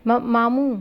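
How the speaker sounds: high, strained call through a blocked mouth; barely getting it out. A narrator's reading. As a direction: struggle to call out. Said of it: "وہ بمشکل بولی". (منہ دبا ہو تو بمشکل پکارنا)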